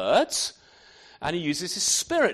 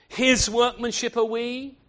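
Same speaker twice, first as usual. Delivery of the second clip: "his" hit harder and a bit higher; stress on his; 4 semitones higher, 5 dB louder than usual. Shown as a demonstration. Preacher to congregation, pressing the word "his". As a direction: lean on "his" before "workmanship". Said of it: "the emphasis on the word his".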